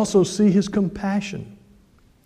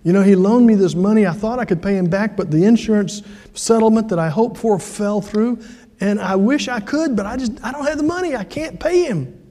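retold helpless plea, climbing higher; apologetic debtor; 3 semitones higher than usual. Debtor admits to pastor he can't repay, apologetic. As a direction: imitate an embarrassed debtor pleading, pitch rising toward the end. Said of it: "sitting there with his head down".

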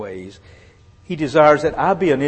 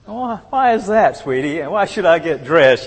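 hammed-up husbandly objection, pitched up; mock protest; 6 semitones higher, 5 dB louder than usual. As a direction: play the reluctant husband questioning his wife. Acts out his protest to wife.

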